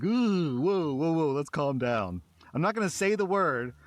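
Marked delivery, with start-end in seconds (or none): 0.0-2.2 high, loud startled whoa; startled inner voice. Retold or imitated. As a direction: pull back as if shocked. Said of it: "a little part of me is like".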